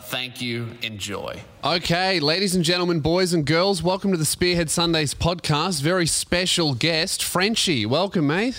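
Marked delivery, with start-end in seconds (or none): 1.6-5.8 grand entrance announcement. Acted. Host welcomes guest, podcast intro. 5.8-7.2 grand entrance announcement. Acted. Host announces guest on show. 7.2-8.5 grand entrance announcement. Acted. Host welcomes guest, podcast intro.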